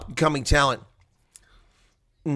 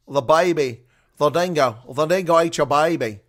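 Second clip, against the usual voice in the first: hammed-up Australian accent, louder; 5 dB louder than usual. Streamer joking in a mock Australian accent. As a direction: play up the Australian accent for a joke. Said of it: "the streamer's Australian accent".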